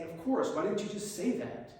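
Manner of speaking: high, bright burst of surprised exasperation; suddenly gets it, half laughing at them; surprised relief. Retold or imitated. Baffled friend realizing they meant it, high surprised exasperation. Finally understands their hint.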